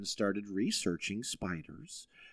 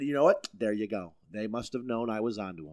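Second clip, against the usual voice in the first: triumphant realization. Retold or imitated. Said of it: "I said".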